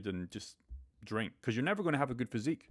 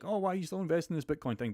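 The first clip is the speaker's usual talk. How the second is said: higher, fast whiny nagging dad voice; mocking dad; 7 semitones higher, faster than usual.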